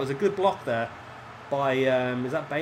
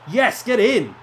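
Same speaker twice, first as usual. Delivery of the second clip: high, loud yell of joy; real delight bursting out at the equaliser; goal celebration; 8 semitones higher, 9 dB louder, slower than usual. Real, not acted. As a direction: cheer the goal as it goes in. Celebrating a goal while playing.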